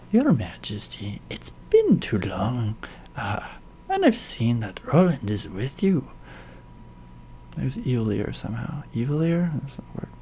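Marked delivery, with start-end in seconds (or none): 0.1-6.1 a lightly voiced menacing villain; evil bad guy. Villain greets the king with low menace. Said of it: "normal evil bad guy".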